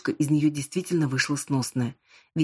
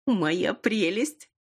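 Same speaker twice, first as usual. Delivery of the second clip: slow, higher, drawn-out delight; gleeful; 5 semitones higher, much slower than usual. A narrator's reading. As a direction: savour it like a treasure. Friend hugs gifted chocolate. (протяжно, с восторгом)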